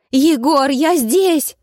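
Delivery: high, loud shout; calling out. A narrator's reading. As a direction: call him through the spirits. Heroine calls lost Koshchei. (громко и высоко зовёт)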